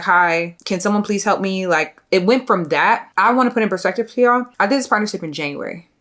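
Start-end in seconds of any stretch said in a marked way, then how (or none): 0.0-1.7 sweet, overly polite customer-service tone; mock polite email voice. Imitating her own polite first email, light and sweet. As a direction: play the nice professional asking for help. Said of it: "it went from professional being like".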